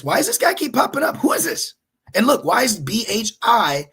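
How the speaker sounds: can't believe this guy keeps appearing; incredulous. Real, not acted. Host spotting the same video again in search, astonished. Baffled by search results popping up.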